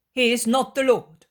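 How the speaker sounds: firm denial. Acted. Woman denies.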